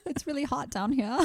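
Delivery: high, soft mock British voice; put-on British accent. Co-host playing a sweltering troop below deck, mock British accent. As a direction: do a small, piping British accent. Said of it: "talk in a British accent".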